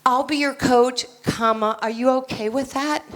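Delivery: hesitant, asking permission, a touch of pleading; a coach who asks instead of tells, each phrase tentative; timid question-mark coach. Shown as a demonstration. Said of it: "No, I don't talk like that".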